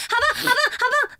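high, fast sleep-talk chant; loud sleep-talk imitation. 学室友梦里大喊好棒. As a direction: rattle it off like a dreamer. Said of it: "我很大声哦，是像刚刚那样子哦".

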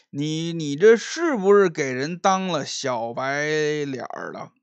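slow, drawn-out sneering speech; drunk mocking young master. Drunk Liu mocking Qian Jin before the tavern crowd, slow sneer. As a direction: savour the insult like a smug drunk.

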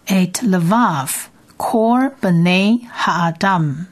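et levav kol bnei ha'adam drawn out very slowly; slow Hebrew reading. Shown as a demonstration. Teacher models the second line for students, very slow. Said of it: "我们再念一次".

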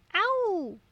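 high chomping roar; tiger bite roar. A narrator's reading. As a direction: snap like a tiger. Tiger bites.

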